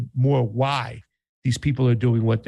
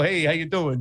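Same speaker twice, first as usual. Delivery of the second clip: mock New York Italian "Hey, how you doing?", pitched up; New York Italian greeting; 4 semitones higher than usual. Host teases guest with New York Italian accent, mock. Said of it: "I thought you were gonna go".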